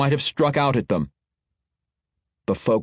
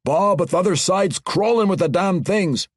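a higher dwarf brogue with a protest in it; grumbling dwarf gunner; 5 semitones higher than usual. Acted.

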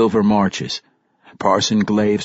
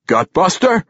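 higher, sly rising question; teasing, raised lilt; 9 semitones higher, 3 dB louder than usual. A narrator's reading. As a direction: suggest it slyly, as a dwarf king. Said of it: "Emerus Warcrown asked slyly".

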